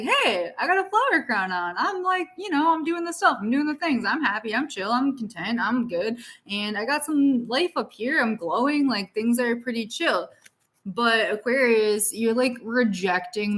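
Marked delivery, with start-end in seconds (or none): 0.0-10.3 lightly voiced happy fairy, higher; fairy girl voice. Reader voicing the fairy on the card, lightly higher. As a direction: play a carefree little fairy. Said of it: "this little fairy girl who's sitting here and like".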